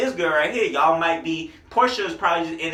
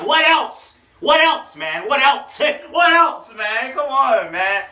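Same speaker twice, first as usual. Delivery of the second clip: loud, high hype yells at the bar; hyped shouting; 10 semitones higher, 8 dB louder, slower than usual. Real, not acted. Reacting to a hard rap line, excited shouting. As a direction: shout it out like the bar just hit you.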